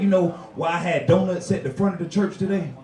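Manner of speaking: low, measured pastor; lightly voiced low preacher; preacher role. Pastor addressing the church about donuts, low and measured. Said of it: "the pastor go up, he said".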